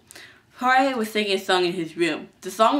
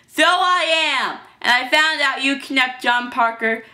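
high, loud admission turned accusation; defiant confrontation; 6 semitones higher, 5 dB louder than usual. Acted. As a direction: own up and accuse right back. Hero defiantly confronts kidnapper.

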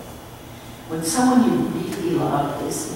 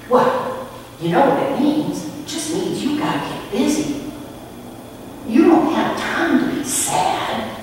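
chirpy clown lady; 8 semitones higher than usual. Retold or imitated. Clown lady urging the sick boy to get busy, high and bright. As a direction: cheerfully hurry the boy along.

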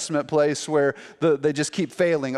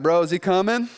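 higher-pitched, needling heckle; mocking taunt; 4 semitones higher than usual. Elijah heckling the prophets of Baal, mocking. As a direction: playfully goad them, acting bored of waiting. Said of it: "He's even kinda mocking them".

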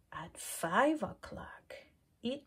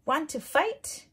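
high, loud, cheeky challenge; grouchy ladybug voice; 7 semitones higher, 7 dB louder than usual. Acted. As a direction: pick a fight in a squeaky bug voice. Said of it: "said the grouchy ladybug".

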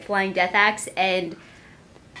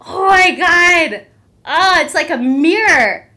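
high, loud, drawn-out amazement; thrilled, high-pitched gushing; amazed squealing; 7 semitones higher, 10 dB louder than usual. Real, not acted. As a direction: cry it out, overwhelmed with delight. Amazed by the mirror finish.

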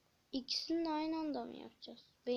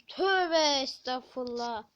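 shocked; 9 dB louder than usual. Real, not acted. Shocked by scary game item.

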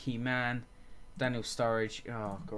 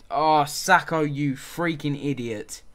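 angry outburst; 3 semitones higher, 9 dB louder, much slower than usual. Real, not acted. Player sent off, red card.

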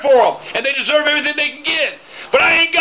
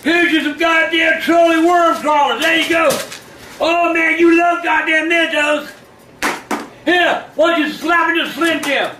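heated family shouting; 2 semitones higher than usual. Real, not acted. Drunk taunting shout.

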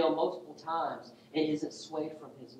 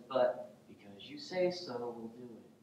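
sarcastic; 3 semitones lower, 6 dB quieter than usual. Acted. Peter reluctantly obeying Jesus about the nets, sarcastic. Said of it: "I love the sarcasm".

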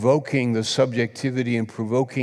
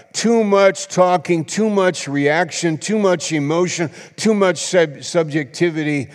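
emphatic preaching; 6 semitones higher, 3 dB louder than usual. Real, not acted. Preacher hammers repeated warning.

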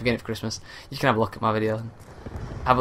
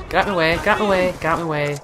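rage mode; 5 semitones higher than usual. Real, not acted. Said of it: "Ah, rage mode".

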